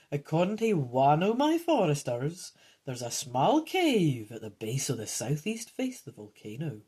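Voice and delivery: lightly voiced old man character; a hint of an old storyteller; old geezer. Old man tells of a cave, lightly voiced old geezer. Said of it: "the old man informs you".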